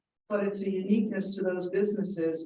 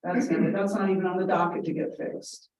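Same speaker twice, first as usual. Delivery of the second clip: disgruntled. Retold or imitated. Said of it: "disgruntled employees saying".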